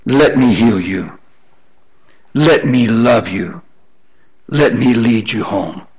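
low, gentle, measured appeal; God's tender offer. Acted. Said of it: "God will say".

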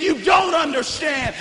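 shouted, leaning hard on don't; screamed at grandma. Retold or imitated. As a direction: hurl it at her, hitting don't. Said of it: "just screamed at her and said".

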